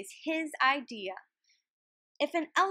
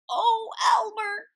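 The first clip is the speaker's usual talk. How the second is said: raised, louder exclamation of recognition; mild gasp; 9 semitones higher, 6 dB louder than usual. A narrator's reading. Old elephant recognizes Elmer in the rain, mildly gasped exclamation. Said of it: "gasped an old elephant".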